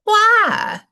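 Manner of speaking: high, loud puzzled why; son's loud baffled why; indignant why. Retold or imitated. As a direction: demand to know why. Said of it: "and he says".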